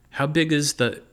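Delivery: squeaky high chipmunk pitch. A narrator's reading. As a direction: still stuck in a chipmunk squeak. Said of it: "Can you make the chipmunk thing stop".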